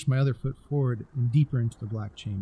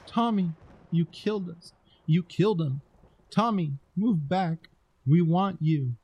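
eerie goblin voices; 6 semitones higher than usual. A narrator's reading. Goblin voices calling the boy.

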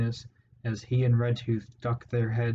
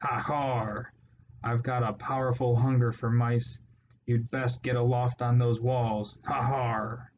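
snarling pirate rat. Acted.

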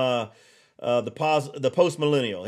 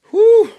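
sudden loud, high laugh then a whew; 10 dB louder than usual. Real, not acted. Catching himself heating up on air, laughing whew. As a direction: blow off the steam with a laugh.

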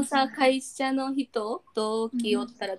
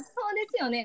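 Kansai-accented そうですよね, pitched up; Kansai intonation; 9 semitones higher than usual. Shown as a demonstration. Friend checking which tune is Kansai, Kansai intonation. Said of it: "が関西弁？".

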